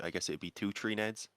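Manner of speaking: put-on light Irish accent, three as tree. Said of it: "or in an Irish accent".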